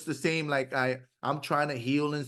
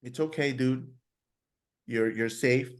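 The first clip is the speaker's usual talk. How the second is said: soothing self-talk; 3 semitones lower than usual. Retold or imitated. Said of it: "You have to take a soft approach".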